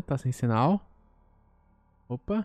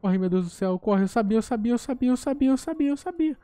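rising panic, voice climbing higher; being chased; 7 semitones higher, 3 dB louder than usual. Real, not acted. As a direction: blurt it while fleeing in terror. Fleeing monster, panicked. (sendo perseguido, em pânico)

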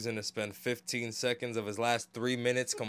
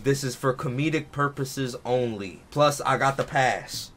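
mock disclaimer; 4 dB louder, slower than usual.

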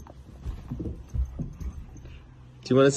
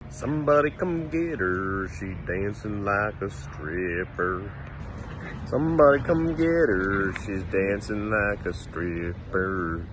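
mock exasperated friend; 11 semitones lower than usual. Owner joking her dancing dog is out of control. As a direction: say it like an embarrassed friend.

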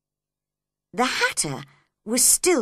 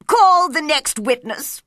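loud, raised courtroom call; commanding king; 6 semitones higher, 9 dB louder than usual. Acted. King calls out an order.

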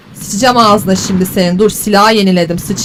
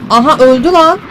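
a quick thrilled yell, higher and louder; excited shout; 3 semitones higher, 5 dB louder than usual. Real, not acted. Gamer cheering as the monster seems dead, excited yell. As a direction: blurt it out, thinking you won. Thinks the creature died.

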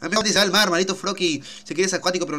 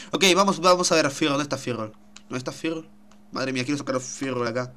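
normal talking voice

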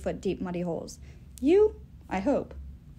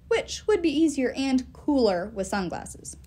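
complaining. Acted. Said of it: "Jack complained".

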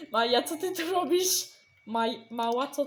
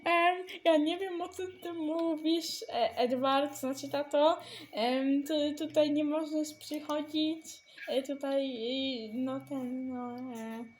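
hesitant, trailing off softer and lower; flustered stalling; 3 semitones lower, 3 dB quieter than usual. Acted. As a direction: stumble through an excuse with filler sounds. Stalling nervously before father. (zmieszane, niepewne jąkanie się)

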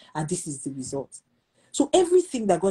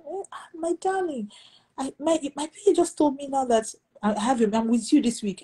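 playful imitation of a fond caller, much higher; imitating the host; 7 semitones higher than usual. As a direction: put on the host's gushing phone voice. Voicing the host on phone.

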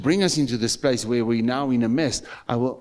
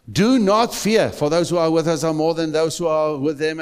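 proclaiming loudly; 3 semitones higher, 4 dB louder than usual. Acted. Preacher voices Elisha's words.

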